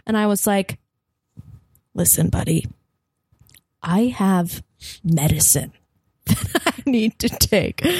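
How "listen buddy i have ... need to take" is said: hushed, conspiratorial plea to the guard; fake urgent whisper. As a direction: whisper it like a secret emergency. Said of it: "A complete lie".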